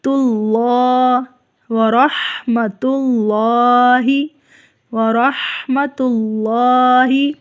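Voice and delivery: slow تاللہ, light ta, full lam; thin ta, heavy lam. Shown as a demonstration. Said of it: "تا باریک ہوگا". (تا باریک، لام پر)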